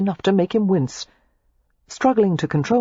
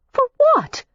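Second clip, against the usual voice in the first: put-on higher, heated young woman's voice; Daisy, furious; 4 dB louder than usual. A narrator's reading. Daisy snaps back at Matthew in fury. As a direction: hurl the accusation back at him.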